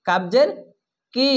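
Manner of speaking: কি said thick and heavy. Shown as a demonstration. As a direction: make কাবজের কি thick from the back. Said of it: "এটা কবজের কি মোটা করে". (মোটা করে কাবজের কি)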